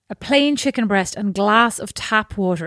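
slow and scornful, leaning on "plain"; dismissive reading. Shown as a demonstration. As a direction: drag out "plain" like it's beneath you. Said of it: "It says it very dismissively here".

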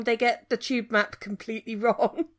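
words breaking up on the line; bad connection dropping out; bluetooth cutting out. Real, not acted. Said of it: "it broke up again".

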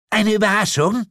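very high, loud echo; astonished question. A narrator's reading. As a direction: echo it in sharp disbelief. Lilith reacts to surprise. (verblüfft nachfragen)

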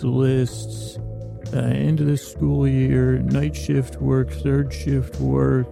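slightly subdued, unhurried bedtime-show delivery; sleepy bedtime intro. Acted. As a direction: ease listeners gently toward sleep, drawing out the list. Bedtime podcast intro over music.

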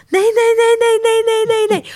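high squealing no-no-no of disbelief; excited screaming. Retold or imitated. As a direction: scream in shocked joy at the proposal. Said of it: "jag bara skriker rakt ut".

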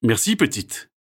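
put-on a courteous dancer thanks the girl; polite Marc voice. A narrator's reading. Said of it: "répond poliment Marc". (voix polie de Marc)

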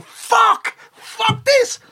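high, loud panicked curse; panicked swearing. Retold or imitated. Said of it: "I'm going".

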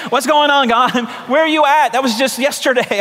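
half-laughing shout of exasperation; exasperated shout at God. Retold or imitated. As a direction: cry out to God, fed up. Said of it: "I was like".

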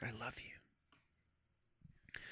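very soft, slow unvoiced whisper. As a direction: draw out each word on a breath. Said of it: "he whispers in the dark".

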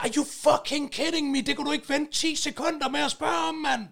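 high-pitched re-enacted incredulous complaint; exasperated disbelief. Man interrupted over a parking question, retold exasperation.

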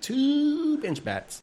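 high, slow, loud whisper-yell. Real, not acted. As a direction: belt it out loud and proud. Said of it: "Say it loud and proud".

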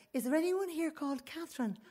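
high, polite enquiry; mother's questioning voice. Retold or imitated. Mother asks through the toilet door, high enquiring voice. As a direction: imitate a mother calling out a question.

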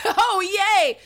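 ordinary delivery

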